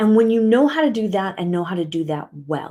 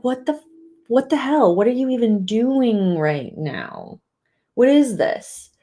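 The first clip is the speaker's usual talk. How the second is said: confused; 3 semitones higher, slower than usual. Retold or imitated. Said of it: "He was so confused".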